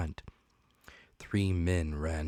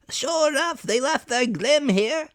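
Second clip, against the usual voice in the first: pirate voice; 8 dB louder than usual. Acted. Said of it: "said the fellow from the window".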